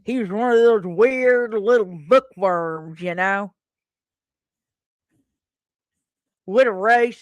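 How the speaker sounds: talking round an object held in the teeth; Bob with something in his teeth. Acted. Neighbor sneers at bookworms, words mushed by an object in his teeth. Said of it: "Should I do that again without that in my teeth?".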